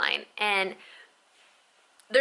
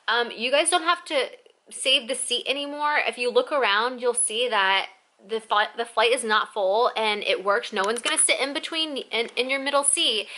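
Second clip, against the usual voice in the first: raised, projecting stewardess imitation; all loud; 3 semitones higher, 3 dB louder than usual. Stewardess to sleeping passengers about the seat, all loud. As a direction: mimic an announcement pitched up at passengers. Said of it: "like, all loud".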